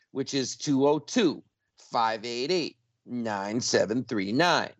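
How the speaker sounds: phone number given slowly in separated groups; super slow. Real, not acted. Host giving listeners the pledge line, super slow. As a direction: read the number out slowly, pausing between groups. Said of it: "I'm gonna repeat this super slow".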